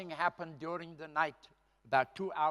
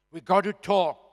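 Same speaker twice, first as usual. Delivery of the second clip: insistent repeat; 5 semitones higher, 16 dB louder than usual. Retold or imitated. Urging APLA secretary on phone.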